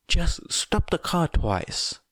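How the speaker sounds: slow, high, menacing order; an "or else" in every word. Acted. Twice repeats, with threat.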